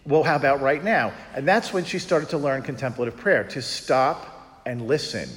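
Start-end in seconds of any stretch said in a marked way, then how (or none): 0.0-1.1 startled, higher, louder; a touch of mock surprise; surprised realization. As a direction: caught off guard, then offering. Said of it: "she realized".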